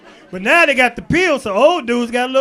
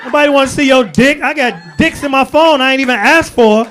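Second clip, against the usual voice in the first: sassy women retort; 5 dB louder than usual. Retold or imitated. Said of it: "Women like".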